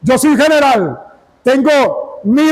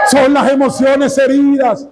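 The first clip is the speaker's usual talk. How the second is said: emphatic shout. Real, not acted. Preacher correcting the congregation, emphatic shout. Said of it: "No es el Espíritu Santo".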